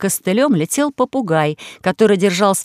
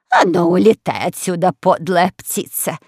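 commanding queen. Acted. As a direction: order the bird off like a scolding matron. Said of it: "приказала она".

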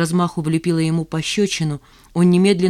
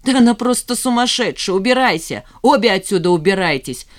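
loud, higher yell to throw them out; 4 semitones higher, 5 dB louder than usual. A narrator's reading. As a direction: roar them out of the house. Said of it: "вопил Влад". (Влад вопит, выгоняя женщин из дома)

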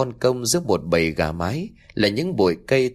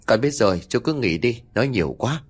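grumbling; 2 semitones higher than usual. Acted. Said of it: "Vừa cào nhào".

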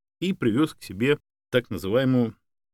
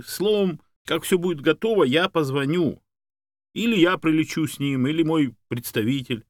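raised, energetic businesslike voice; earnest helper Yuri, explaining; 6 semitones higher, 4 dB louder than usual. A narrator's reading. Man explaining the dog's export paperwork, earnest. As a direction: lay out the steps keenly, pitched up.

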